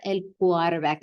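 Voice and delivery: "quarterback" said Spanish-style as "kwar-er-bah"; Puerto Rican pronunciation. Shown as a demonstration. Teacher previewing what you'll hear in Puerto Rico, "quarterback" in Spanish style. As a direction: soften the middle and end of "quarterback". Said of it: "They're gonna pronounce it like that".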